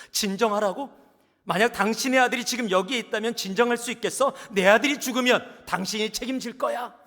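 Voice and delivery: loud, high furious yell; angry outburst. Acted. Father blowing up at the doctor, loud and high. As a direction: bark it back in rage. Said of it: "또 버럭 화를 내면서".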